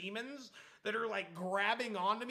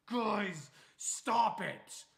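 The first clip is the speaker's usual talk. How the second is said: annoyed warning; 2 semitones higher, 6 dB louder, much slower than usual. Retold or imitated. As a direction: warn them off, raised voice. Sleepy friend warning them off.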